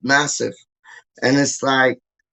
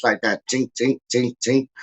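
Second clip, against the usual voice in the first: indicator noise; 2 semitones lower than usual. Retold or imitated. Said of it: "indicator noise".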